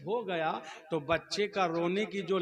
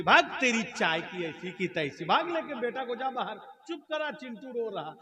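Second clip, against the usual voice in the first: mock tirade climbing higher; scolding wife; 5 semitones higher than usual. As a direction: send him off with rising exasperation. Wife scolds husband, orders him out.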